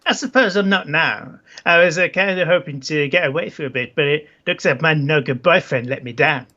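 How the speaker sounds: put-on accent, curse as a full stop; Isabella. Isabella complains her boyfriend let her down, put-on accent. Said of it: "It's just like a full stop".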